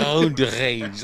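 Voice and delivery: "Road rage" with the Rs gargled in the throat. Shown as a demonstration. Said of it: "I'm literally gargling when I'm doing it".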